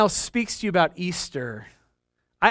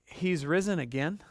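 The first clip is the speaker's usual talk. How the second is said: weary Eeyore; 7 dB quieter than usual. Retold or imitated. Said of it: "where you're just like".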